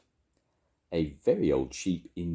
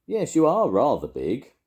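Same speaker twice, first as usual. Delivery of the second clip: high, loud agreement; emphatic Grandma; 8 semitones higher, 7 dB louder than usual. A narrator's reading. Grandma agreeing with Charlie, high and emphatic. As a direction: declare it loudly, pitched up.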